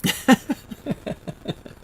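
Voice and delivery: high airless laugh through tears; breathy teary laugh. Real, not acted. Embarrassed at crying on stream, airless laugh. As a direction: let a silent tearful laugh out. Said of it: "Oh, I'm ridiculous".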